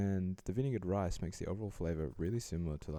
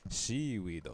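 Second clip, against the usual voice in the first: Seaweed with a Japanese accent, sh at the start; 2 semitones higher, 4 dB louder than usual. Shown as a demonstration. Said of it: "just say it in a Japanese accent".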